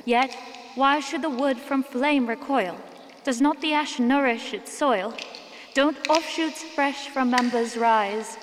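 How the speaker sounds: solemn preacher reciting verse to the village; sermon recital. Acted. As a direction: intone the poem like a sermon from the pulpit. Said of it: "She's holding a sermon right now".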